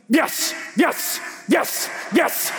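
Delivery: short, separate bursts of yes; acted-out self pep talk. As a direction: psych yourself up with each yes. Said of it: "trying to fire myself up".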